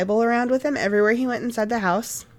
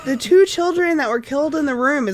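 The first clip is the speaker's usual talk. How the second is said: annoyed; 3 semitones higher, faster than usual. Real, not acted. Annoyed at being interrupted.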